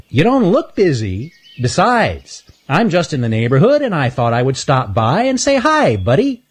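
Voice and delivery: breezy and cheeky; chipmunk Earl. Acted. Earl replies, high voice.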